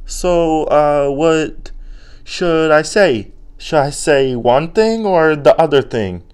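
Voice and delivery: put-on high, pleading childlike voice; confused little-kid brain. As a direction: whine helplessly like a cornered kid. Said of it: "And our brains are like".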